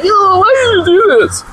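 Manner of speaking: high, whiny mocking falsetto; mocking high whine; mock whiny emailer. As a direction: squeak it out like a complaining fan.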